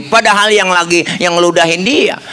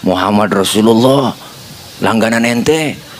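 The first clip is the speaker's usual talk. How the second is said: lightly voiced Prophet with a chuckle; gentle Prophet; 5 semitones lower than usual. Prophet names himself, joking. (suara Nabi rendah, pelan, sambil tertawa kecil)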